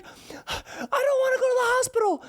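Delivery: put-on high, tearful child voice; crying child voice. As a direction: plead through tears like a hurt little kid. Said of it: "And he's like".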